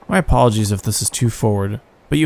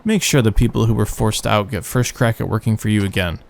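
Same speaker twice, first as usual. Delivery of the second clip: acting out the characters' lines; reading game dialogue. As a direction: read the cutscene aloud. Reads game dialogue aloud in voices.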